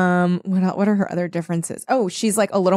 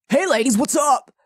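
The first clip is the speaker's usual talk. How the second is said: put-on quoting the boys; 5 semitones higher than usual. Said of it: "they're like".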